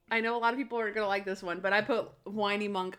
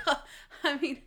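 sheepish, half-laughing excuse; mock bashful deflection; embarrassed, smiling; 3 semitones higher, 4 dB louder than usual. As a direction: imitate an embarrassed man smiling through it. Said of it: "embarrassed. And he's, like, smiling".

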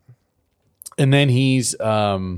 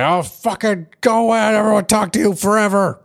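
put-on much higher whiny kid voice; mock childish pout; 9 semitones higher than usual. Cranky telling Pinkie Pie to go away, high whiny pout. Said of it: "He's like".

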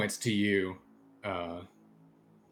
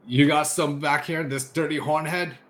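a hint of a rough officer, louder and higher; gruff officer; 5 semitones higher, 4 dB louder than usual. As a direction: accuse him in front of the guards. Officer accuses the prisoner.

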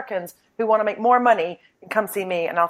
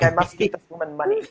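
mesmerized. Acted. Listener charmed by a British accent, mildly mesmerized. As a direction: say it as if lightly hypnotized. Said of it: "people are mesmerized".

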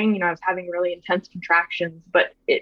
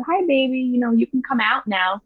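tender greeting; 4 semitones higher than usual. Retold or imitated. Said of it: "I said".

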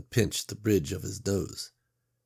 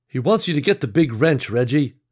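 louder, spelling it out; impatient Gary; 6 semitones higher, 7 dB louder than usual. Acted. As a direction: lose patience, explain hard. Gary loses patience.

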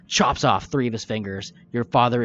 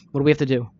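higher, louder urgent plea; lightly voiced desperate mother, pitched up; pleading mother; 4 semitones higher, 4 dB louder, much faster than usual. Mother begging strangers for her baby back, urgent pleading.

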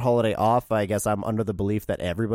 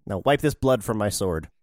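low mock villain; 5 semitones lower than usual.

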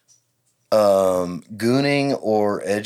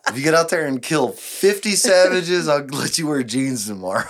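mock rallying speech; 5 semitones higher than usual. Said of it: "what do you tell the troops".

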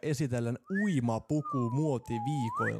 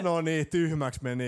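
laughing; 3 semitones higher, 5 dB louder, slower than usual. Real, not acted. Laughing after outburst.

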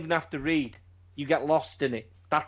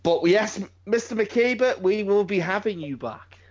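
mock host voice; 6 semitones higher than usual. Mock formal sign-off to guest.

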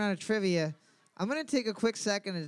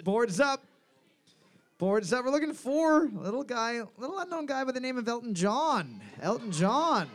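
higher-pitched answer reveal; quiz host; 6 semitones higher than usual. Real, not acted. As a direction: announce the answer with showy build-up.

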